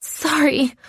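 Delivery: high, slightly winded apology; huffed, winded. A narrator's reading. Winded trainee apologising to injured man, lightly huffed. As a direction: huff it out lightly. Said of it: "I huff out between respirations".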